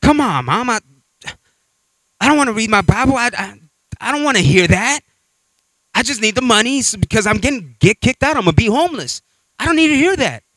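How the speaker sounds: high pleading voice, near breaking; desperate whining son. Retold or imitated. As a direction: beg your mother for the money like a panicked kid. Son begging mom for rent.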